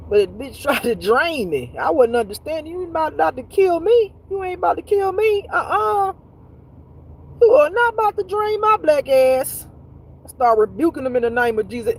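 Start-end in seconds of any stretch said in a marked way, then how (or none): 2.7-9.7 raised high, indignant warning; defiant rebuke. Retold or imitated. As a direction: tell the creature off, pitch climbing. Rebuking an alien in bed.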